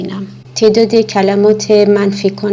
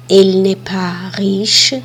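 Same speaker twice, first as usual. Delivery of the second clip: whispered slow example; much slower than usual. Shown as a demonstration. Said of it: "model sentence for learners".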